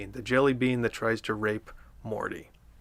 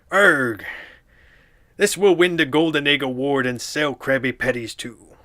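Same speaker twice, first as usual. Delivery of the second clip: lightly voiced Mister Krabs, louder; 3 dB louder than usual. Mister Krabs boasting about his float. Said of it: "I think I do a pretty decent Mister Krabs".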